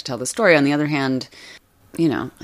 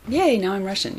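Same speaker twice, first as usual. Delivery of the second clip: mock cheer; 7 semitones higher than usual. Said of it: "she wasn't like".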